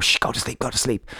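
put-on hushed shushing to a baby; soft whisper, lulling a newborn; whispering over a crib. Soothing newborn at night.

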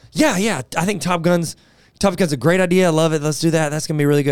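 eager yes. Retold or imitated. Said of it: "Neil's Marco Polo response".

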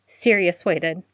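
ordinary delivery

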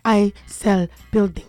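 slow, put-on Dominican accent; Vasti Pichardo. Host answering as her movie character, mock Dominican accent. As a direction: spell out your job in a mock Dominican accent. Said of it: "can't say all that in an accent".

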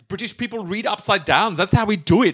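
high-pitched mock-German accent, bluffing. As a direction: insist you're British in a German accent. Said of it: "a German person pretending to be British".

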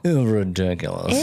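Texas drawl, slowed and stretched; a lightly hammed Texas accent on ridiculous. Shown as a demonstration. The speaker mocking himself in a Texas accent, slow. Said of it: "Sounds ridiculous when you do".

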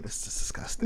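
hushed, breathy disgust, almost a whisper. Retold or imitated. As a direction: mutter it in mock revulsion. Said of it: "I was like".

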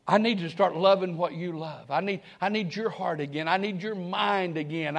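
soft, slowed prayer to the Lord; hushed prayer. Retold or imitated. Preacher voicing his own prayer, softly prayerful. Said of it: "I bow my head and say".

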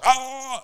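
high startled scream; a sudden shriek of fright. Retold or imitated. Scared by his screaming girlfriend, he shrieks back. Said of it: "jeg skriger også".

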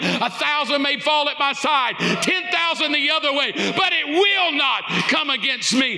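proclaiming at full force over the music; preaching declaration. Acted. Preacher declaring scripture to the congregation, full force.

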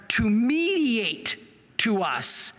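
loud, drawn-out mediate; emphatic loud. Shown as a demonstration. Preacher stressing to his audience, loud and slow. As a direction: call it out slowly and loud. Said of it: "That means to pass on".

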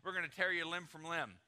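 thundering threat that eases toward the end; angry decree. Acted. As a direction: play an enraged ruler laying down the law. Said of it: "he's got anger all over the place".

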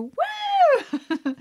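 high, loud laughing whoop; laughing woo. Retold or imitated. Telling how she reacts to a right answer, she whoops laughing. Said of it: "when I do".

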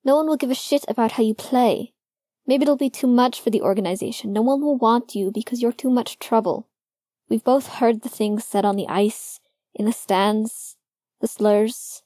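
bitter outburst. A narrator's reading. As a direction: let it spew out of you. Logan spewing fears at Finn.

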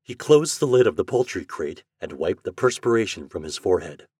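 usual speaking voice

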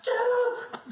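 high, loud yelling mom; shouting. Retold or imitated. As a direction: yell it over and over. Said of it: "the last time she'd come".

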